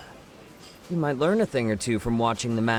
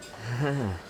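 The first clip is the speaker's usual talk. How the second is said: short chuckle; 3 dB quieter than usual. Acted. Amused reaction to tough warning.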